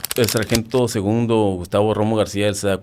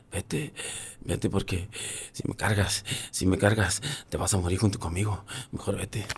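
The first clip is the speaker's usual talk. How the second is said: weak urging; 8 dB quieter than usual. Retold or imitated. Dying comrade urging him away.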